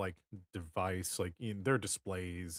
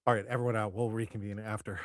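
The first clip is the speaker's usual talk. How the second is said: louder, brisk dismissal; commanding boss; 4 dB louder, faster than usual. Acted. Boss ending the meeting for everyone, commanding. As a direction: clear the room with authority.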